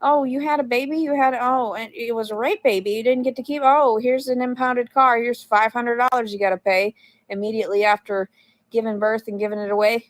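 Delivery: sarcastic officer impression; mock officials. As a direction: imitate the bureaucrats mockingly. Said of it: "They're like".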